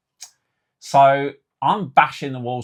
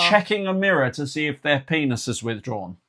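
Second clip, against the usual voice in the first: incredulous, raised and drawn-out questioning; mock disbelief; 5 semitones higher, 4 dB louder than usual. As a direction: stretch out the question in comic disbelief. Acts his disbelief at the instructions.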